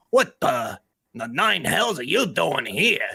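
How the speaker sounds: hobgoblin chieftain creature voice. Voicing a hobgoblin chieftain who recognizes a goblin: hobgoblin chieftain voice. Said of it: "the hobgoblin chieftain recognizes him, and he goes".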